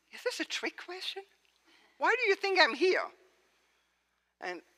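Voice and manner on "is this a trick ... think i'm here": exasperated disbelief. Retold or imitated. Preacher voicing Mary's exasperated reply.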